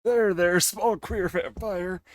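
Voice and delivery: slow put-on vampire voice; lightly voiced vampire; combined voice. Shown as a demonstration. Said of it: "I can do both voice".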